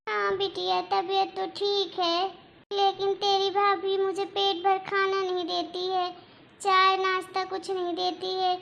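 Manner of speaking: granny laying the misery on thick; self-pitying granny. Acted. Granny pities herself to daughter. (धीमी, दुखी दादी की शिकायत)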